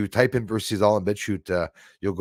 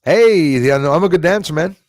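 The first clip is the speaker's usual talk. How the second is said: loud, higher playful shout; loud joking call; 5 semitones higher, 8 dB louder than usual. Pretend. Joking to the sky.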